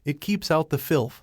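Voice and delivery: a touch of emphasis on "filth"; stress on FILTH. A narrator's reading. Masked man excusing his mask, stress on "filth". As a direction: lean lightly on the last word, "filth". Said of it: "putting special emphasis on the last word".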